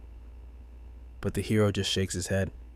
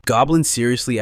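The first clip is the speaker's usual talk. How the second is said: incredulous; 3 semitones higher, 8 dB louder than usual. A narrator's reading. Mocking disbelief.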